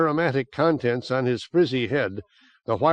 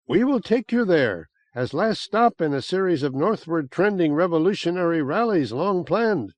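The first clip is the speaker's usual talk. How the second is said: bright, higher, eager coaxing; eager plea; 5 semitones higher than usual. Acted. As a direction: lean in and tempt him warmly. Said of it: "Rosa said eagerly".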